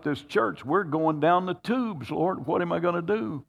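desperate prayer, voice lifted high; pleading prayer. Retold or imitated. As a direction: cry out to the Lord in distress. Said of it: "I'm crying out to God".

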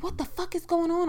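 high-pitched, baffled exclamation; retold alarmed outburst. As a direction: act out jumping up in disbelief. Her retold outburst during fight.

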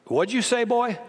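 imitating the father's clipped demand; stern military father. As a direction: demand it like a strict father catching back talk. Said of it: "here's his response".

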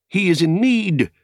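loud, high urgent cry; cried out. A narrator's reading. Aragorn realises his friend is in danger and cries out. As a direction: call it out in alarm. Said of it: "he cried".

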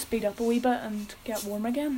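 talking in the cold air; chilly, breath showing. Real, not acted. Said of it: "I can see my breath".

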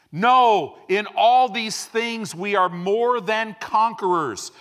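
impassioned pulpit declaration; fiery preaching. Real, not acted. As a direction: preach it with full conviction. Preaching at full force.

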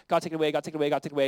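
quick, perfunctory repeats run together; rattled-off prayer. Acted. Mimicking a hasty three-times prayer, rattled off. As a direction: rattle it off like a rote request. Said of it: "not like one, two, three".

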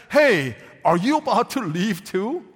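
plain reading of the question; Jesus asking. Shown as a demonstration. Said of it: "What tone of voice could we detect from Jesus?".

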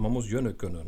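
a touch of Cologne dialect; lightly dropped-in Kölsch phrase. Shown as a demonstration. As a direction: say it in Kölsch, like a local saying. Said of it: "ja, so kölnisch gesprochen".

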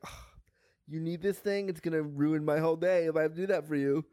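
mock exasperated groan into a complaint; put-upon. Patient imitating hospital staff asked for help, put-upon. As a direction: imitate staff treating a request as a nuisance.

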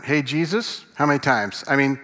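lightly voiced eager disciple; Peter. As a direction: pitch it like a pupil sure he's scoring. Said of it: "Back to the voice again".

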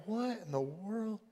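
hushed, slow aside in confusion; very soft, baffled murmur; puzzled disciple. Retold or imitated. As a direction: ask it under your breath, bewildered. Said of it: "coming up beside him and being like".

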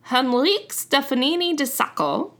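put-on a clumsy French and Italian accent on the name. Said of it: "French and Italian accent simultaneously".

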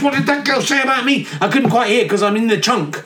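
lightly voiced offended God; petty God. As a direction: fuss like a deity hard of hearing.

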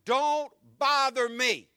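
flat closed-door reply; curt refusal. Acted. Preacher voicing the sleepy friend turning him away.

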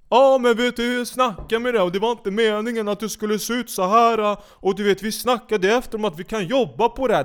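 mock impression of a TV host brushing it off. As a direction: ham up her fake apology, pitched high. Mocking the host's excuse.

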